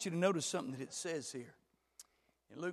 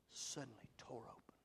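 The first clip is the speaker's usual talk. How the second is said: very soft, low and hushed; hushed awe; 5 semitones lower, 16 dB quieter than usual. Real, not acted. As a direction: drop almost to a whisper. Hushed awe at torn curtain.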